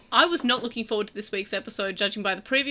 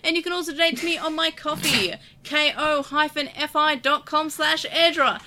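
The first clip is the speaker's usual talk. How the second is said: lightly hammed-up auctioneer, pitched up. Host plugs donations in a mock auctioneer manner. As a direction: sell it like a mild carnival barker. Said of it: "I don't think I can ever stop talking like this".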